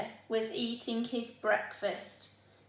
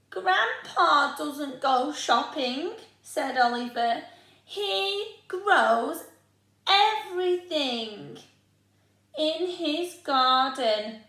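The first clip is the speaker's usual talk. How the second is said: put-on higher, louder slow boy; objecting child; 5 semitones higher, 6 dB louder, slower than usual. Oliver objecting to going shopping, louder and higher.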